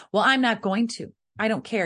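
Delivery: acted bratty protest, pushed up; defiant child. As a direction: fire back like a stubborn child. Acts out child defying parent.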